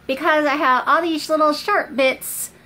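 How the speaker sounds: pulling lip aside while talking; talking around own finger. Real, not acted. Seen 1: Finger presses lower lip down to show braces while she talks.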